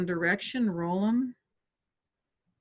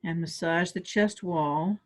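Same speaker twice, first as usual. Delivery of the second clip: yawning through the words; 2 semitones lower than usual. Real, not acted. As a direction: talk mid-yawn. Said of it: "I yawned on that one this time".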